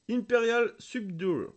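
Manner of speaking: English in a thick French accent. Real, not acted. Card opener reading an English card name, thick French accent. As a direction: read the English slowly, heavily French-accented. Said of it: "j'ai un accent anglais à couper au couteau".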